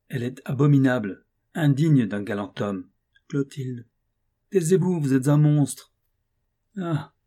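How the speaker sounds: rising outrage, spitting the accusations; vehement. Acted. Countess denouncing Gontran's conduct, vehement and loud. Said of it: "avec une véhémence extraordinaire".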